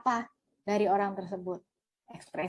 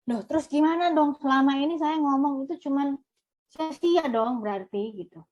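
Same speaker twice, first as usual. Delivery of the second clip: higher, puzzled objection; mock protest; 4 semitones higher, 3 dB louder than usual. Listener objects that all the talking was wasted, mock protest. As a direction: act out a taken-aback listener objecting.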